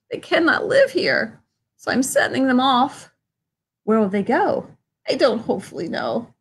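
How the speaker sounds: high creature voice, scolding and worried; Lorax voice. Acted. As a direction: fuss at him about the smoke. Lorax coughs and explains.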